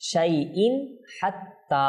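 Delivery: শাইইন with a clean n, then হাত্তা; clear-n izhar. Shown as a demonstration. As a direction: keep the n of শাইইন unhummed before the h of হাত্তা. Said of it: "সেখানে ইজহার". (শাইইন হাত্তা, নুন স্পষ্ট করে)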